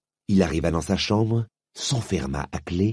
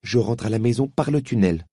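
cold tone; 4 semitones higher than usual. Acted. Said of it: "sur un ton assez froid".

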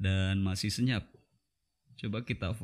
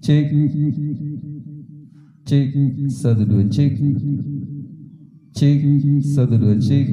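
loud mic check with heavy echo; echo effect; 4 semitones higher, 11 dB louder, slower than usual. Real, not acted. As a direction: test call drenched in reverb. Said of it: "efek ehonya".

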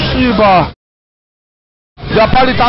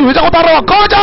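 angry yell; 6 semitones higher than usual. Real, not acted. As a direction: shout them off. Chased by enemy, yelling. (쫓아오는 적에게 화내며 지르는 고함)

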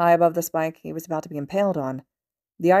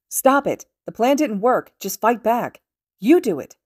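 desperate shout; 6 semitones higher, 7 dB louder, slower than usual. Acted. Monoma pleading in fight.

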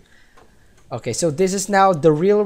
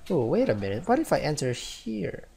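normal talking voice

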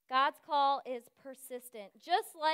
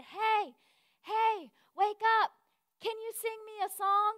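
higher, sing-song nudge; coaxing wake-up; 6 semitones higher than usual. Retold or imitated. Counselor waking a sleeping girl for video, coaxing. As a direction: gently coax a sleeper in a raised pitch.

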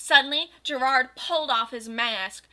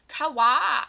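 louder, bright squeal; happy; 3 semitones higher, 8 dB louder than usual. Acted. Goth girl hearing a murder confession, happy. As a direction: coo it like a delighted fan. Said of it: "I commented happily".

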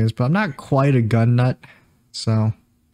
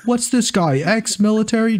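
game soldier voice; 10 semitones higher, slower than usual. Retold or imitated. Payday two swat voice lines.

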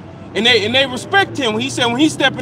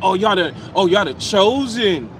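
mock awe, dragging out "chosen"; slow, taunting imitation of the scoffers; imitated mockery; 3 semitones lower than usual. Scoffers naming the believers as chosen, mocking. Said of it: "It was a mockery".

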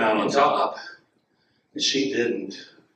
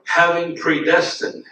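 slow model reading; 5 semitones higher, slower than usual. Shown as a demonstration. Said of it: "Say that".

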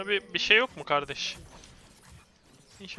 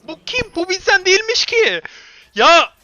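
very high, loud squawk of disbelief; high-pitched incredulous outburst; exasperated shriek; 12 semitones higher, 12 dB louder than usual. Real, not acted. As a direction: yell it way up high in protest. Outburst at game, nerves gone.

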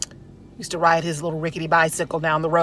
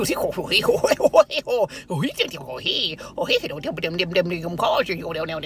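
put-on mumbled old-man babble. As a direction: jabber half-intelligibly like an old country man. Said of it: "J D".

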